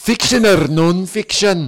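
put-on female Scottish accent. Role playing a librarian in an old library: scottish librarian accent. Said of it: "a Scottish librarian".

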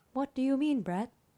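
high-pitched put-on phone virtual assistant voice. Speaker acting out Siri talking back to Brett, in a Siri impression. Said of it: "That's my Siri impression".

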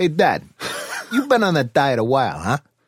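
put-on chatty, animated young child voice with swooping pitch. Father retelling what his son said to him, imitating his son. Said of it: "this is how he talks".

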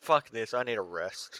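put-on worn out, weary, fed-up voice. Retelling Rita's scene: imitating Rita, fed up. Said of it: "it's just her being like".

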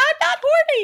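very high, very loud, full-lung top-of-lungs scream. Acting out being chased around a store, screaming at the top of lungs. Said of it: "I'm screaming at the top of my lungs".

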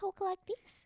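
put-on high old-fashioned lady voice.

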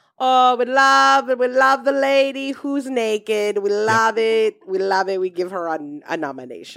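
very slow, drawn-out put-on European lilt. Speaker, discussing a film performance, does a Hollywood Foreign Press impression. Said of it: "That is a great impression of the Hollywood Foreign Press".

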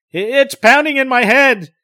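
terrified, voice cracking. Answering the doctor's questions, reliving it: voice breaking in terror. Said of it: "Now his voice breaks in extreme terror".

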